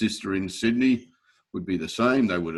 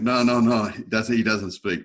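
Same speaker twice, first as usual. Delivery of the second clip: higher and louder, hurried cutting-in no no no; urgent interruption; 3 semitones higher, 5 dB louder than usual. Retold or imitated. Tony cutting in to explain he speaks no Italian, urgently. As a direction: jump in fast to stop the Italian flow.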